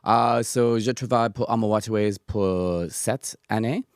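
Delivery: English speaker's halting French; French with a strong English accent; foreign accent in french. Real, not acted. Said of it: "mon français n'est pas bien".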